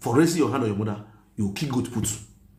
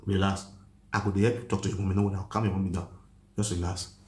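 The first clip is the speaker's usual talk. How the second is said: low, soft reassurance; calming the daughter down quietly; soothing; 5 semitones lower, 4 dB quieter than usual. Retold or imitated. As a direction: settle a frightened girl gently. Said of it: "Eh, I say".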